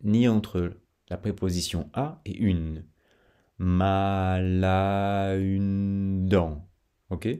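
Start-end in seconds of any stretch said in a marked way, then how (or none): 3.6-6.7 very slow, mal à une dent glued together; slow linked syllables; no pause linking. Shown as a demonstration. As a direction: drag it out without breaks. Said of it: "pas de pause ni entre mal et à".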